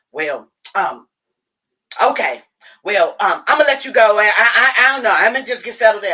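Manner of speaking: high, loud mock mom voice, hesitant; imitating mom. Daughter mimics mom ending the call, high and loud. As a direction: mom trailing off, done high. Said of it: "And so she goes".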